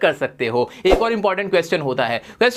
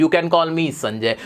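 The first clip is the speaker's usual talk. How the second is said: slow, lower, word by word; slow model sentence; 5 semitones lower, much slower than usual. Shown as a demonstration. Teacher modelling an English line for students, slow and clear. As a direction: spell it out slowly for learners. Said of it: "वो बोलोगे".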